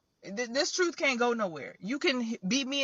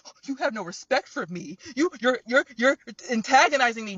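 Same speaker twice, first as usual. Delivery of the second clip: mock offended; 4 dB louder than usual. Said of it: "people are getting offended, like".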